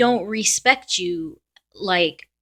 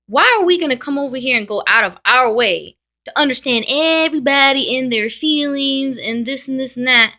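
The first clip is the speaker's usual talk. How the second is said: higher and louder, exasperated; fed-up outburst; 4 semitones higher, 5 dB louder than usual. Real, not acted. To other signs who never listen, loud and exasperated. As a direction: let the frustration boil over.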